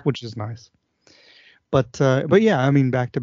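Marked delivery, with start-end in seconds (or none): 0.0-0.7 soft whispered aside. Real, not acted. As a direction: whisper it to yourself.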